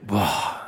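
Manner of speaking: acted gasp and awed "boah"; stunned gasp. Adam first sees Eve, stunned acted gasp. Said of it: "fast in Ohnmacht gefallen".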